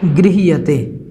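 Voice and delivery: गृह्यते said clearly as grɪhijəte; model pronunciation. Shown as a demonstration. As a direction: sound out गृह्यते carefully. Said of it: "गृह्यते बोलना है इसको".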